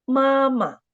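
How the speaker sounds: "妈妈" said high and clear, with a light second syllable; model pronunciation. Shown as a demonstration. Teacher reading for students to repeat, careful model. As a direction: say "妈妈" carefully for the class to copy. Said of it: "请跟我读".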